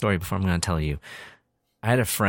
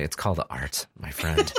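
smug; 5 semitones lower, 4 dB quieter than usual. Retold or imitated. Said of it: "I was like".

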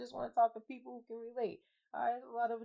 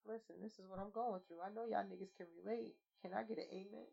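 softer, preachy call for an amen; mock church testimony; 9 dB quieter than usual. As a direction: lead the group like a lightly voiced preacher. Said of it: "have a session where we just".

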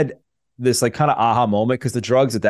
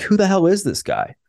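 much higher, in an amazed voice; a high, astonished "who the hell is this guy"; stunned disbelief; 10 semitones higher than usual. Retold or imitated. Stunned by the jacked cellmate.

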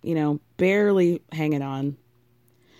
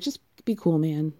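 mock fed-up wife; faster than usual. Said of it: "Stacey's like".

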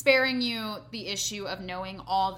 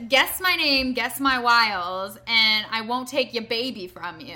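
spooky fairy-tale voice; 7 dB louder, slower than usual. Retold or imitated. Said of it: "came into your chamber and said".

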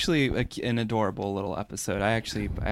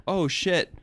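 higher panicked mayday call; bracing for a crash; 5 semitones higher than usual. Acted. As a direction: panic as the ship goes down.

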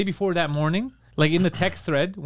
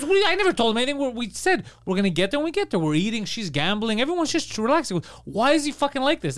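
retold bafflement, pitched higher; exasperated protest; 4 semitones higher than usual. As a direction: imitate a friend protesting in higher-pitched disbelief. Retold friend's exasperated reaction.

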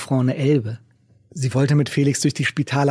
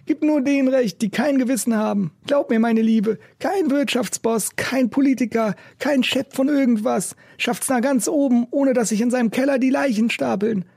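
raised, rough busker voice; gruff old street musician; 10 semitones higher than usual. A narrator's reading. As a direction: play the cynical old busker. Macke's voice in story.

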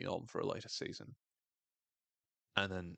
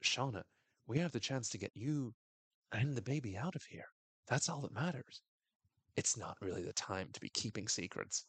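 faux sanctimonious; 3 semitones higher than usual. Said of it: "as she says".

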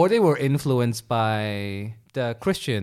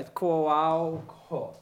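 slow repeat; 5 dB quieter than usual. Shown as a demonstration.

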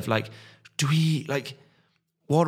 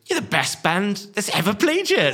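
high, laughing mock fan gushing; a lightly voiced adoring fan; starstruck fan; 9 semitones higher than usual. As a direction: gush like an overexcited fan, laughing through it. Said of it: "he was like".

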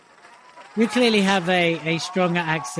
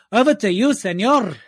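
higher, brighter with a teasing señor; playful handoff; 5 semitones higher, 3 dB louder than usual. Pretend. Co-host handing the floor to Jose, playful. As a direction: toss it over with a wink.

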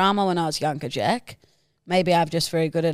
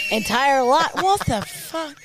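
laughing; 6 semitones higher, slower than usual. Real, not acted. Cracks up at own stumble.

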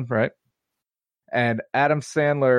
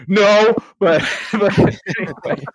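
sheepish mock brush-off; 7 semitones higher, 5 dB louder than usual. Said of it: "And he's like".

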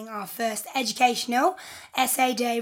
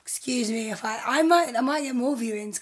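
raspy, hoarse voice after days of shouting; a hoarse rasp from selling all weekend. Real, not acted. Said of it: "I sound a bit raspy".

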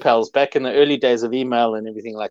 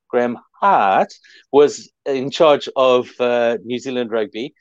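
Kiwi accent. Shown as a demonstration. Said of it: "I'll say it in a Kiwi accent".

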